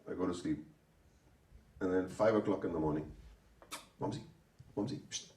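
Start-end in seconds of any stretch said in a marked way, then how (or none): 4.0-5.3 unvoiced whisper of a name. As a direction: hiss a wake-up whisper. Waking someone at dawn.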